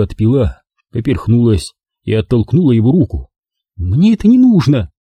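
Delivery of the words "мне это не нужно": moaning. A narrator's reading. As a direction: push the whisky away with a moan. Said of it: "простонала она".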